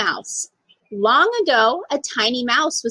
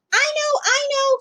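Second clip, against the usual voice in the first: put-on eager child; 12 semitones higher than usual. A narrator's reading. Eager child answers teacher.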